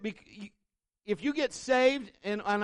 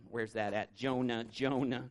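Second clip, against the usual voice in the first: low, soft puzzled mutter; confused listener; 11 semitones lower, 6 dB quieter than usual. Retold or imitated. Churchgoer unsure where Jonah is, low soft puzzled. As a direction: play a lost churchgoer searching the Bible.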